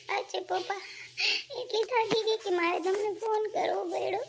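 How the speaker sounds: a tearful, crying plea. Acted. Daughter pleading with her father through tears. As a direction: let the tears break through the words. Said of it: "રોમાં મારી દીકરી".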